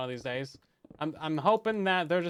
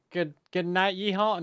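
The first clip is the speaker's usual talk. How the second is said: mock Southern goodnight; 4 semitones higher, 4 dB louder than usual. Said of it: "So it'd be like".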